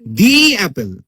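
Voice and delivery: দি said as a long "dee" before অ্যাপেল; vowel-sound article, দি drawn out as "dee". Shown as a demonstration. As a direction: stretch দি into a clear "dee". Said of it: "কি অ্যাপেল বলবো".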